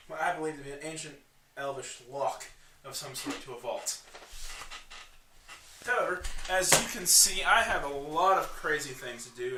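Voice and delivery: lightly voiced gnome, lively and emphatic; a hint of a busy, eccentric gnome; gnome quest-giver. Gnome explains the ruins to adventurers, lightly voiced.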